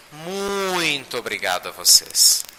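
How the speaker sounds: slow, drawn-out thank you; heartfelt thanks. Real, not acted. Speaker thanking those who receive his messages, heartfelt thanks. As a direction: linger on "Muito", then settle.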